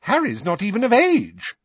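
high, loud mock-mother protest; high-pitched mocking impression of mum; mimicking his mother. A narrator's reading. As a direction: parody your mother's scolding. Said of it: "high-pitched voice that sounded uncannily like his mother's".

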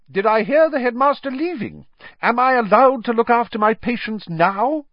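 high, indignant questioning; huffy matron in a very bad mood; bad-tempered matron. A narrator's reading. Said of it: "She was in a very bad mood".

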